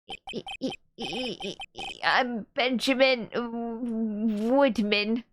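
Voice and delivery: halting, slow, nervous stammer; stuttering nervous man. Acted. Nervous witness introducing himself, stammering slowly. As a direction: stammer out the name like a shy man.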